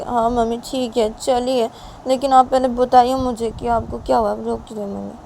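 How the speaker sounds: agree, then press mother gently but firmly; concerned daughter. Acted.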